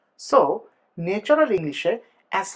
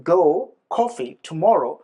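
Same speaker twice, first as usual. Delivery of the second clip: "go", "coffee", "tomorrow" each said apart; key words "go, coffee, tomorrow" one by one with pauses; content words only; 3 dB louder than usual. Shown as a demonstration. Teacher showing which words carry the message, isolated stressed words. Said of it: "এই ওয়ার্ডগুলোও বলি".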